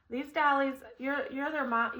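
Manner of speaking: gently imitating a loving new mom; a light, doting mother's tone; lightly voiced adoptive mom, tender; mom's tender voice. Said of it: "she said it like this".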